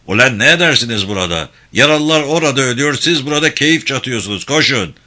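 loud, fast angry rebuke; scolding outburst. Acted. Mahmut scolds the medics resting under the willows, angrily. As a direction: tear into the idle medics. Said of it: "Mahmut çıkıştı".

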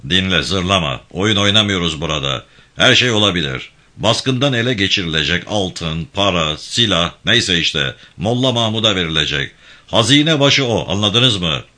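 a firm, lightly voiced gang chief giving orders; steady commanding tone, barely apart from the narration; commanding leader. İbrahim Bey scolds.

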